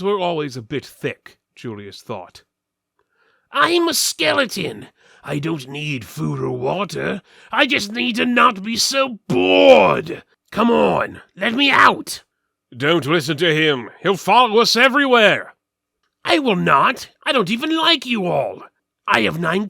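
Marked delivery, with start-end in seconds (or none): 3.5-12.2 high, loud put-on skeleton voice; a caged skeleton talking big to strangers. Caged skeleton pleads with the party, high and loud. 12.8-15.5 higher, louder warning; alarmed companion. Acted. Companion warns party not to free skeleton, higher and louder.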